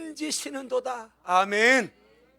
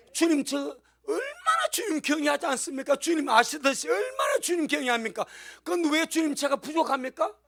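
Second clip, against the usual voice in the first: higher, insistent pleading with the Lord; pleading complaint to God; 4 semitones higher than usual. Acted. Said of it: "주님을 협박해야 돼".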